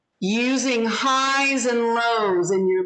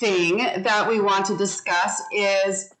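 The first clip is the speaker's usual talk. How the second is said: lots of inflection. Shown as a demonstration. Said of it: "I have ups and downs in my voice".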